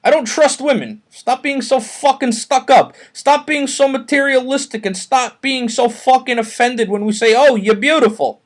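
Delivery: hammed-up rant against women; mock Chris rant. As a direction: play him griping to the reporter. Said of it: "He told the award-winning, hard-hitting journalist".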